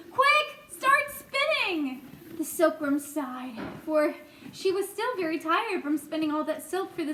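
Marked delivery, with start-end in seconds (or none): 0.1-2.0 high, loud order, then slowing; commanding shout; urgent yell. Acted. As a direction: hurry her along at full voice. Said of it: "yelled James".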